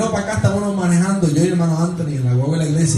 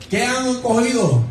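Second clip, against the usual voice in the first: retold distant call, pitched up; calling from afar; 5 semitones higher, slower than usual. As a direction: imitate calling across the water, slowly. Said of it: "le grita de lejos".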